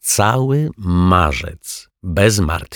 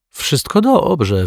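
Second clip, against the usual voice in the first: much higher and slow, forced out; stunned detective barely getting it out; choking it out; 10 semitones higher, 3 dB louder, much slower than usual. A narrator's reading. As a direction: squeeze the words past a tight throat. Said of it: "wykrztusił detektyw Pozytywka".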